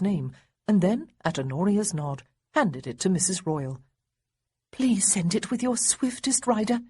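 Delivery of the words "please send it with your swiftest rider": begging. Acted. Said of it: "Honoria begged".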